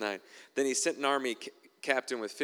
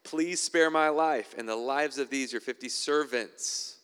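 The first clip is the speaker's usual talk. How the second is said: slow, louder pleading plea; pleading captain; 2 semitones higher, 4 dB louder than usual. Acted. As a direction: beg for your life, drawn out. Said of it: "He pleaded with him".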